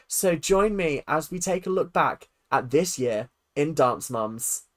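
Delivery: measured, emphatic presenter read; award category intro. Acted. Streamer introducing a category to viewers, presenter voice. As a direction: announce it like an awards host.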